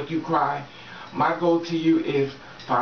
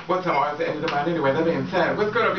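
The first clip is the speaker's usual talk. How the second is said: ordinary delivery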